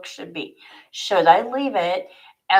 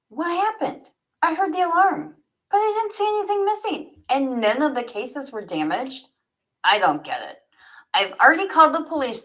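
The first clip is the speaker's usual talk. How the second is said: a higher, quick, baffled voice; lightly voiced puzzled collector; Franz, puzzled; 4 semitones higher, faster than usual. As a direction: rush the worry, then settle. Franz speaks, a story figure.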